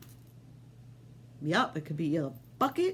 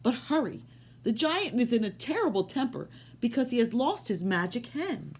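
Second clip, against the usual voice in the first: higher, lightly voiced wife; giant's wife; 6 semitones higher than usual. Wife offering Jack food, lightly higher voice. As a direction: offer it kindly, a bit higher. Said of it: "said the giant's wife".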